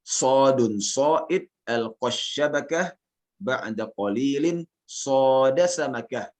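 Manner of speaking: slow, measured Arabic verse recitation; teacher modelling a verse line. Shown as a demonstration. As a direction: recite slowly, lifting each phrase ending until the last. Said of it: "Anda bacakan syairnya".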